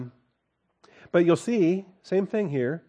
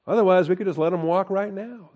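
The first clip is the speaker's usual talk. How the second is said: higher, louder exasperated governor; exasperated official; 6 semitones higher, 4 dB louder than usual. Retold or imitated. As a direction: sound stuck and fed up with the case.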